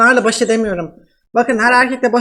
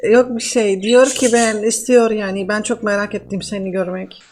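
man doing a woman's voice. Pretend. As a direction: fake Russian woman, broken Turkish. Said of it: "nasıl kadın sesi yapıyorum".

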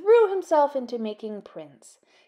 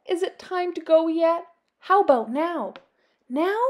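put-on eager, pestering child bat; impatient; 6 semitones higher, 5 dB louder than usual. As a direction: bounce with impatience. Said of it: "impatient Little Bat pestering".

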